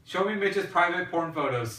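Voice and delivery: half-laughing mock command. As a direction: giggle through the joke command.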